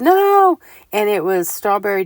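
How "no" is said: sudden sharp high yell of no; shouted no, high and loud; loud holler. Retold or imitated. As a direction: holler it out to stop him. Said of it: "the girl hollered at him real loud".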